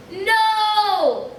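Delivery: high, loud cry of no; boy crying out as the car explodes; anguished shout. Acted. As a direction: scream it in horror. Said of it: "shouted Frank".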